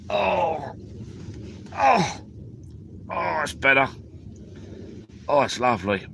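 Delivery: high drawn-out oh of relief; real relieved moaning as he settles in; relieved groans. Real, not acted. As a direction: sink into comfort with a long oh.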